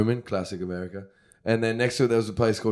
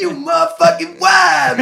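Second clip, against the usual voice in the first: put-on American accent; 6 dB louder than usual. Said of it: "They go".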